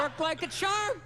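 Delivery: slow, drawn-out repeat. Acted. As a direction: stretch each word out slowly.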